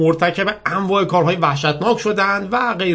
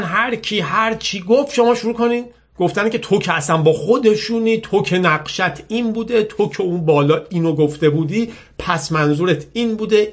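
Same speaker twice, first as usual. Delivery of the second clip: higher-pitched mocking rattle of accusations; mock online troll; 6 semitones higher than usual. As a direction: lightly imitate a nagging troll. Mimics cyber army's attack comments.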